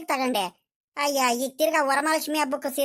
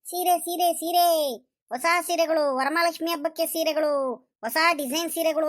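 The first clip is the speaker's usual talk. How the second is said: higher-pitched imitation of a street seller; mimicked hawker's call; 4 semitones higher than usual. Grandfather repeats the saree seller's cry to his wife, mock hawking. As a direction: mimic the saree vendor calling out. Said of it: "ನೀನು ಚೆನ್ನಾಗಿ ಕೂಗ್ತೀಯ".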